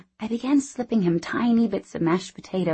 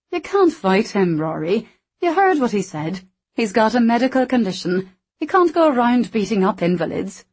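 higher, louder, remonstrating woman; scolding barmaid; 4 semitones higher, 4 dB louder than usual. A narrator's reading. Meg stopping Rory from fighting Hank, scolding. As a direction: talk the big man out of it.

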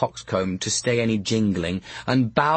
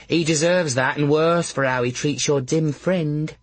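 laundress; 4 semitones higher than usual. Acted. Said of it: "said the laundress".

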